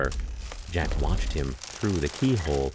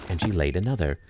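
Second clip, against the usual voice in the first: ordinary delivery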